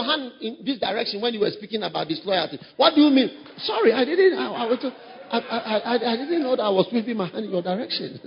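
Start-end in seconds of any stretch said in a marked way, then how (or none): 3.6-8.2 mock nervous apology, laughing; sheepish giggling excuse; flustered laughing apology. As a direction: stammer through a laugh, caught off guard.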